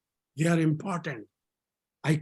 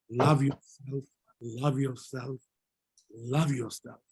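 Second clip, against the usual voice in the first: low, soft, slow repetition; gentle urging; 6 semitones lower, 4 dB quieter than usual. Real, not acted. Yoga teacher urging the class to self-love, gentle and hushed. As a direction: let each repeat sink in softly.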